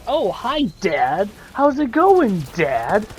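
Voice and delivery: hammed-up daughter hailing her dad; Tyreen. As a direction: sing out the greeting high, drop on the last word. Voicing Tyreen's surprise greeting to father.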